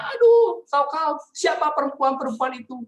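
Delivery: very high, loud horrified cry; aghast mom. Retold or imitated. Mother aghast. (mama histeris, sangat tinggi dan keras)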